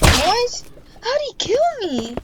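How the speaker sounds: high, loud stunned outburst; shocked disbelief. Real, not acted. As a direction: blurt it out in disbelief. Shocked at being killed.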